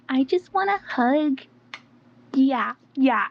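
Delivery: light imitation of a whiny baby voice, slowed. Retelling his late-night talk, a hint of baby voice. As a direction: plead for a hug like a toddler, half-mocking. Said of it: "talking to me in a baby voice".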